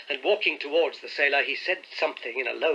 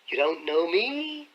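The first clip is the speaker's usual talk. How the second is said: put-on sly old sailor; 3 semitones higher, slower than usual. A narrator's reading.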